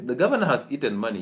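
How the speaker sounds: quick, dismissive repeat of "the governor has eaten money"; doctor echoing the mother's excuse with doubt; dry sceptical echo. Retold or imitated. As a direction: toss her excuse back at her fast. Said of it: "I'm like".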